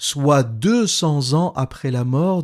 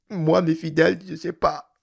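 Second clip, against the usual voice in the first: jealous weeping, higher and tearful. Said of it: "il pleure et il dit".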